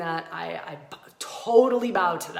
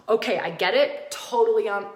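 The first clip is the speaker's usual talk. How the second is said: ordinary talk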